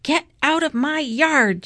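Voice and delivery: high, forceful narrated shout; storybook shout with pitch well up. A narrator's reading. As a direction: yell to chase the pig off. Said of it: "shouted Eugenia".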